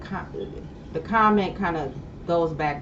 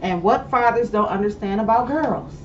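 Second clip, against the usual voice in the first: with braces; 4 semitones higher, 5 dB louder than usual. Real, not acted. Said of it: "I'm sorry, I got braces on".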